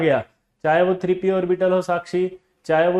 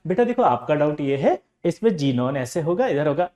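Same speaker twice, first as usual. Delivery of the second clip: 1 gentle teacher. Retold or imitated. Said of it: "teacher प्यार से बता रहा है".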